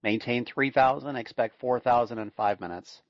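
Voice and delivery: steady radio clearance readout; air traffic control. Acted. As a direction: read it like a tower controller.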